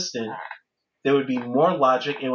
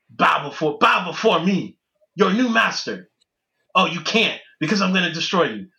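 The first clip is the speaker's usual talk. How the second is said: dark lord; 3 semitones higher than usual. Retold or imitated. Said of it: "He's doing that whole thing".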